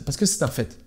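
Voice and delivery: whispered, confiding aside. Real, not acted. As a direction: drop to a whisper for the point. Aside while explaining the brain.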